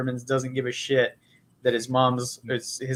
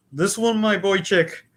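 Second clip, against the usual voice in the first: a hammed-up old-school Jewish accent, pitched higher; a Jackie Mason style Jewish accent, attempted; mock Jewish accent; 6 semitones higher than usual. Shown as a demonstration. Demoing his Jewish accent to a laughing co-host. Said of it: "I have one I call The Chosen".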